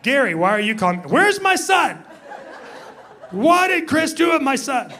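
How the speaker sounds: a frantic wife on the phone; alarmed wife. Retold or imitated. Wife grills Gary about her missing son, high alarmed voice. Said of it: "I'm sure what she would be like".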